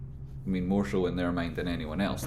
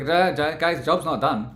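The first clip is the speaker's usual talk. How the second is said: hammed-up hype voice, higher and louder; mock rally cry; 7 semitones higher, 7 dB louder than usual. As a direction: imitate the pumped-up trader rallying the crew. Mocking traders rallying each other.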